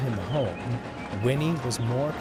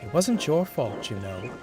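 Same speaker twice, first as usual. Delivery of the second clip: gentle whisper. Acted. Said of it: "Winnie whispered gently".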